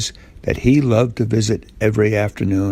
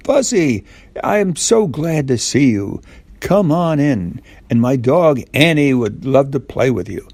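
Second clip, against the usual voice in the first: put-on higher, bright little-girl voice for Goldilocks; Goldilocks greeting; 4 semitones higher than usual. Goldilocks welcoming Fuzzy at her door, higher girlish voice.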